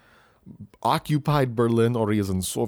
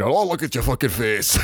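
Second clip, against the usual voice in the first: Jason Isaacs. Acted. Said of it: "you got fucking Jason Isaacs coming in".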